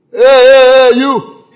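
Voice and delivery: loud high mock call to a waiter; mock rude guest shouting at servers. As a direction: bark for the waiter, hammed up. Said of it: "I don't like to say".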